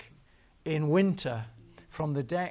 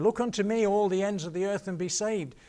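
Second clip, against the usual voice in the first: loud, raised preacher's call; 5 semitones higher, 4 dB louder than usual. Retold or imitated. Old preacher calling to the crowd, raised voice. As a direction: call it out across the chapel.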